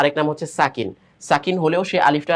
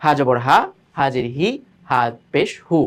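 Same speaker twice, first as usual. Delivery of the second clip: quick recitation. Shown as a demonstration. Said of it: "এই যে তাড়াহুড়া".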